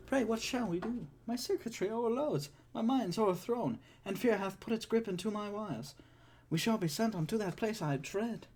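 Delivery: high, fussy robot voice in Shakespearean verse; a worried butler droid reciting iambic verse; C-3PO in Shakespeare. Acted. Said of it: "C three P O".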